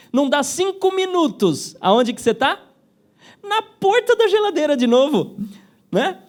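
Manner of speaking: laughing high through the words. Real, not acted. Teacher laughing to the class about the fridge. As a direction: crack up laughing while saying it.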